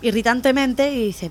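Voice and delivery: ordinary delivery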